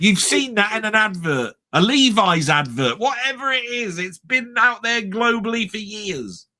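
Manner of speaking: half-shouted comic indignation; mock shouting. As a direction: argue back at the screen in disbelief. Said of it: "I'm shouting at the screen".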